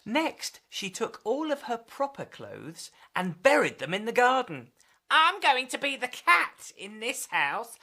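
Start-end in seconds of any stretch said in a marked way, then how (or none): 5.1-7.8 put-on purring girl. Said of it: "she purred".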